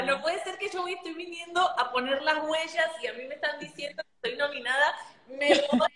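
retelling the joy of the news in the visa line; excited disbelief. Retold or imitated. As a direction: gush with giddy disbelief. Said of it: "Y yo estaba".

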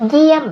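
เยี่ยม with a long vowel, starting high and falling. Shown as a demonstration. Teacher models a new Thai word, long vowel and falling tone on เยี่ยม. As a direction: draw out the vowel in เยี่ยม and let the tone fall. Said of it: "it's long vowel and falling tone".

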